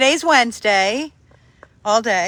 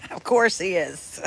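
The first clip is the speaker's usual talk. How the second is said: chuckling through the words; amused, laughing as she says it; 3 semitones lower than usual. Real, not acted. To viewers about Tank at the groomers, laughing.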